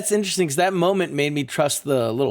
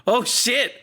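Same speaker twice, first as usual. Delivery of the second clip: retold amazement; 9 semitones higher than usual. Retells reaction to film's ending.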